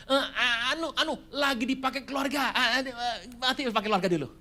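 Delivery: high, hesitant stammering excuse; a hint of a nervous borrower; flustered excuses. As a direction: hem and haw like a caught liar. Flustered debtor voiced.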